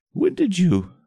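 stunned stammering. Acted. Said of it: "jaw hanging slack".

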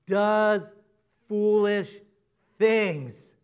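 slow, deliberate verse read; scripture reading. Shown as a demonstration. Preacher reading the verse aloud to congregation, slow and deliberate. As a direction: read the verse slowly, word by word. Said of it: "Look at the verse again".

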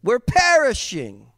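mock panicked cry. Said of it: "That's paraphrased".

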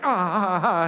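jolted string of ahs; mock pain cries. Hurt skier bumped downhill on toboggan, imitated pain cries. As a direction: yelp lightly at each bump. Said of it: "pain all the way down".

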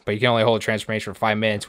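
fast rattled-off excuse; rushed mock spiel. Mocking the pig's excuse, rattled off fast. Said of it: "so he goes this on spiel".

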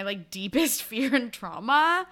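rising mock-incredulous hello; a touch of sarcastic disbelief. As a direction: throw it back at them, deadpan. Feyre mocking fans' tactlessness.

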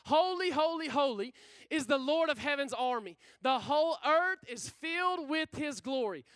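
angels calling out, voice lifted; lifted, emphatic proclamation; crying out. Acted. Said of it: "they're crying out to each other".

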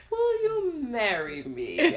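creepy little suitor. Retold or imitated. Daughter proposing to mom with a ring, slow creepy imitation. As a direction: stretch it out like a child's creepy proposal. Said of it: "it's creepy".

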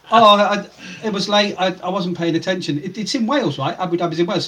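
put-on Welsh accent. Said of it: "He had a broad Welsh accent going".

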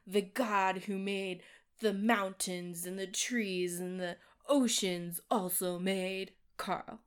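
big booming voice. Retold or imitated. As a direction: read it slowly like a grand movie narrator. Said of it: "there'd be this big booming voice".

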